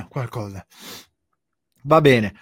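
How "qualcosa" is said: cough, then choke out the word; coughing fit. Real, not acted. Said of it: "ho dato di traverso".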